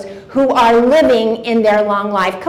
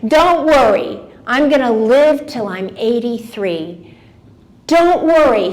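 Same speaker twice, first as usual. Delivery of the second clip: put-on Yiddish accent. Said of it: "That was a Yiddish accent".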